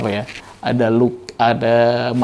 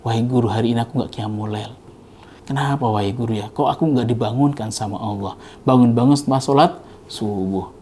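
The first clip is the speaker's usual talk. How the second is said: softer, grieving complaint to the teacher; sad lament; 4 dB quieter than usual. Retold or imitated. Imam Syafi'i laments to his teacher, softly grieving. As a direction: pour out your sorrow quietly. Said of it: "Sedih itu berlarut-larut".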